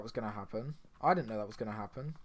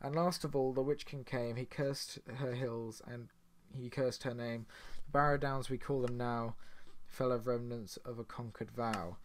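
poem recital; 3 dB quieter than usual. Acted. Gamer reading a lore poem to viewers, solemn recital.

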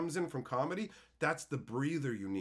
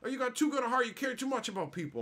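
higher, gently gushing mock lady voice; a hint of a sweet older lady doting on him; mimicking a nice lady; 10 semitones higher, faster than usual. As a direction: lightly play the kind lady fussing over him.

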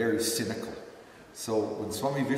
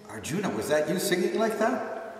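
higher-pitched imitation of an amazed questioner; astonished question; 8 semitones higher, 4 dB louder than usual. Secretary questioning the student after satsang, astonished. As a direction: ask it high, in mock disbelief.

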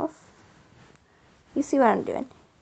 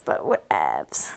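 whispered whatevs; slower than usual. Real, not acted. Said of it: "making him talk like this".

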